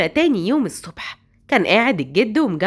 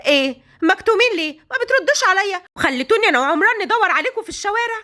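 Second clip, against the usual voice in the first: scolding; 4 semitones higher than usual. Acted. Hagar to the two sick girls, angry scolding. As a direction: tear into the girls for worrying everyone. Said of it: "وهي بتزعق".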